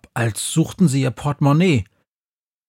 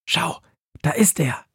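hissing witch; 4 semitones higher, 4 dB quieter than usual. A narrator's reading. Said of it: "zischt die Hexe".

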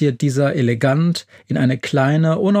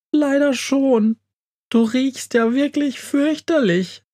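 much higher, whiny mouse voice; whining mouse; 12 semitones higher than usual. A narrator's reading. Mouse answers the smelly Yahoo, high and whining. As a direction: moan it like a queasy little mouse.

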